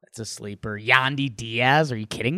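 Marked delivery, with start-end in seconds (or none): 0.8-1.9 Bob Uecker. Acted. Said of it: "I'd love to hear Bob Uecker, like, overemphasize".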